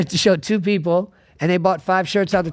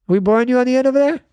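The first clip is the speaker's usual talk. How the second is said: mock challenge; 6 semitones higher, faster than usual. Real, not acted. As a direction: needle the silent guy at the end of the table. Teasing a quiet guest on the end.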